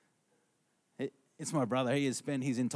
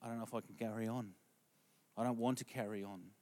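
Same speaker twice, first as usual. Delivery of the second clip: despairing; 3 semitones lower, 8 dB quieter than usual. Retold or imitated. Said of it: "we're like".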